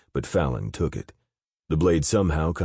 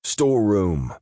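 higher, louder one-word shout; 7 semitones higher, 5 dB louder than usual. Acted. Fallon shouting the way to the guard. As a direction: bark the order across the room. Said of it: "Fallon shouted".

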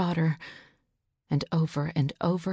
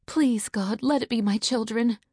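anxious plea, pitched up; silent prayer; 5 semitones higher than usual. Acted. Mother praying the children are home, anxious plea. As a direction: pray under her breath that it's her children. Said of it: "she thought".

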